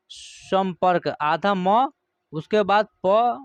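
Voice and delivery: संपर्क broken into parts very slowly; teacher spelling out a word for children, very slow. Shown as a demonstration. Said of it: "देखिए".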